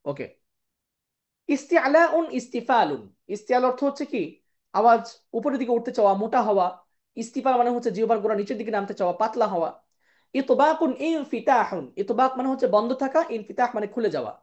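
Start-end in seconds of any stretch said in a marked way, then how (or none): 1.5-3.0 slow, measured term pair; slow recitation. Shown as a demonstration. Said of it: "জোড়ায় জোড়ায় পড়বো". 10.3-11.8 slow, measured term pair; slow recitation. Shown as a demonstration. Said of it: "জোড়ায় জোড়ায় পড়বো".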